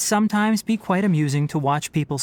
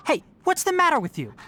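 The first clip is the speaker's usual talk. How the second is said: much higher-pitched, startled question; high-pitched exasperated check-in; taken aback; 12 semitones higher than usual. Acted. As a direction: break off the lecture, puzzled and reproving. Interrupts distracted listener in scolding.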